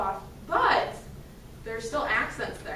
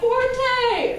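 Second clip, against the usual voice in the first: loud, higher model of the word Forte; 9 semitones higher, 6 dB louder than usual. Shown as a demonstration. Teacher shows the band how loud forte is. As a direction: belt out Forte the way they should play. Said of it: "Fifty-one, forte, right?".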